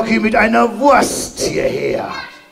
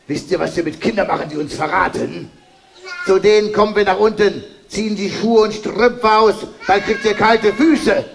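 robber threat; 2 semitones lower, faster than usual. Acted. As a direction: rattle off the threat like a sly robber.

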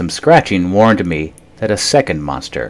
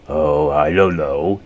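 mock terrified; 4 semitones lower, slower than usual. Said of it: "trying to sound terrified".

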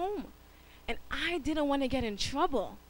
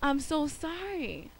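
louder call then slow apology; mock tearful sorry; sorry little boy; 4 semitones higher, 4 dB louder, slower than usual. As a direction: run to daddy and apologize. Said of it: "he says".

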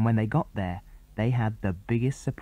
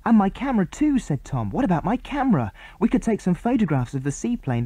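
put-on bright boyish chatter pitched up; boy character voices; 6 semitones higher than usual. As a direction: boys on the island plotting, pitched up. Boys planning.

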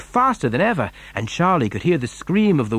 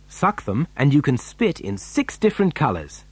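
ordinary delivery

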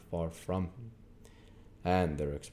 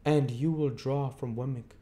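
stern lawyer Jaggers; 8 semitones higher than usual. A narrator's reading. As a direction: hold the witness with a hard stare. Jaggers announcing Pip's fortune.

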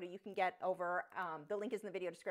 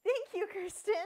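excited thanks; 12 semitones higher, 7 dB louder than usual. Real, not acted. Thanking a viewer for super chat.

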